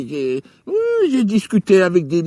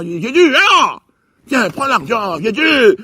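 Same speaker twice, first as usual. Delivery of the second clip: calling out; 3 semitones higher, 5 dB louder, slower than usual. Retold or imitated. Calling out to Jesus.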